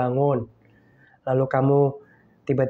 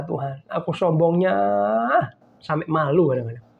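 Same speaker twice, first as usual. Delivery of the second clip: pleading prayer; 3 semitones lower than usual. Retold or imitated. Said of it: "Itu saya dulu".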